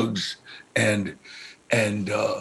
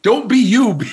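laughing son's note; 8 semitones higher, 6 dB louder than usual. Retold or imitated. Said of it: "he would".

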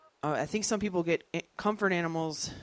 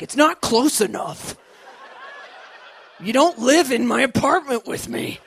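louder, higher needy complaint; demanding friend; 8 semitones higher, 11 dB louder than usual. Retold or imitated. Comedian complaining to her best friends, loud and needy. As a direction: whine about not being close enough. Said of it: "I'm like".

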